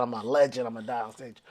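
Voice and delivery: low, very soft stoned musing; high-brain musing. Retold or imitated. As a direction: sink into a private murmur. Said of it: "that's how my high brain was".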